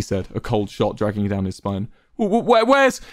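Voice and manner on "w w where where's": high, stuttering alarm; panicked stammer. A narrator's reading. Quackity frantically looking for Tubbo, panicked stammer. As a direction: trip over the words in rising panic.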